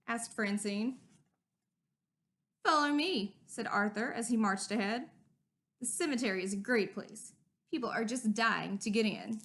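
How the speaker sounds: put-on lively storybook read-aloud for kids; animated children's story narration with character voices. A narrator's reading. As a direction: read it like story time with a class. Reading a picture book aloud to children.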